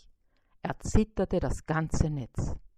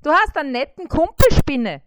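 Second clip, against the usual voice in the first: much higher, louder, fast relieved voice; relieved beetle; 8 semitones higher, 10 dB louder, faster than usual. A narrator's reading. Freed beetle thanking the spider, high fast relief. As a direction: gush it out in relief. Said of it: "sagte der Käfer erleichtert".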